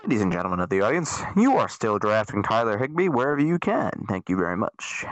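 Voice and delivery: lightly done pilot over the PA; airline pilot announcement. Pretend. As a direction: announce it like a calm captain. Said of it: "I sounded like an airline pilot".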